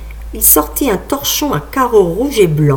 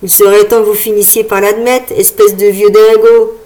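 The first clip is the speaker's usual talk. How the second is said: put-on insulting boy; 4 dB louder than usual. Boy insults old man.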